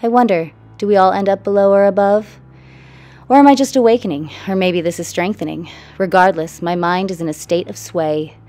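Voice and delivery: measured, rhythmic spoken-word delivery; poem reading. Real, not acted. Artist reading her own poem about a troubled mind, poem reading. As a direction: recite in rhymed lines, punching some line openings. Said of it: "reveal and the poem reading".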